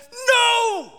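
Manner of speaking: loud, high drawn-out "no"; protesting cry. Retold or imitated. Preacher reacting to the verse he read, protesting cry. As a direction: wail it out in protest.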